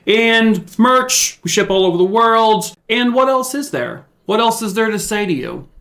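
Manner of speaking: high, lilting mock-plug voice; playful sing-song. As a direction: run through the plug in a silly high lilt.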